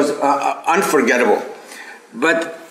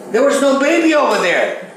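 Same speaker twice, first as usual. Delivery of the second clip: amazed; 9 semitones higher than usual. Real, not acted. Amazed about baby in photo.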